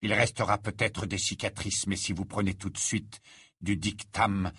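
lightly voiced, low and measured professor; stern Rogue. Professor sending the wounded boy to the infirmary, grave.

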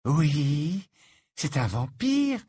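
stating the obvious, slow and high; matter-of-fact. A narrator's reading. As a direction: say it as plain fact. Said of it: "affirma Luna sur un ton d'évidence".

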